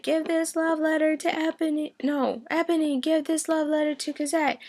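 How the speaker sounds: high, fumbling hammed-up voice; mock Marius. Marius at the barricades handing over a letter, high and fumbling. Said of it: "Marius is like".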